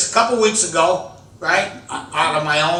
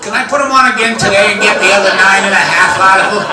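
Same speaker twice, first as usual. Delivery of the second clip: rushed hopeful pitch; 2 semitones higher, 6 dB louder, faster than usual. Acted. Pitching an absurd sock idea.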